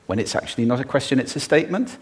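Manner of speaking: statement rising like a question; uptalk. Shown as a demonstration. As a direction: end "statement" on a rise. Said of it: "as if it were a question".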